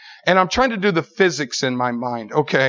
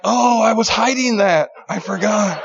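tag; 5 semitones higher than usual. Acted. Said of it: "And I'm like".

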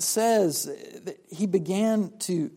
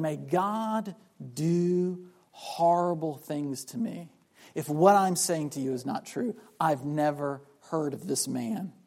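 solemn oath; 3 semitones lower than usual. Retold or imitated. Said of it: "invoking a curse from God".

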